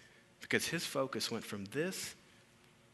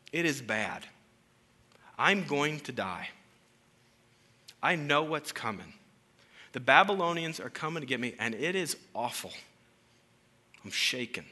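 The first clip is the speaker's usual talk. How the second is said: mock fearful outcry; 3 semitones higher, 7 dB louder than usual. Voicing Habakkuk's fear.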